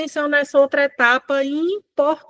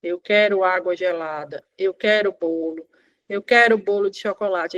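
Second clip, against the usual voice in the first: put-on child's request demo; 4 semitones lower than usual. Shown as a demonstration. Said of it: "ensinar ele a fazer pedidos".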